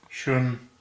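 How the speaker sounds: "Shun" said as if spelled S-H-E-U-N; Mandarin pronunciation demo. Shown as a demonstration. Teacher showing learners how the character is pronounced, "Shun" modelled clearly. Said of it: "it's pronounced more like S H E U N".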